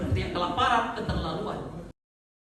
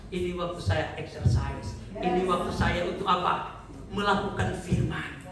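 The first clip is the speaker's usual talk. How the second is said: slow, lower-pitched measured answer; composed resolve; 4 semitones lower, slower than usual. Acted. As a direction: answer trouble slowly and calmly. Acted composed reply to troubles.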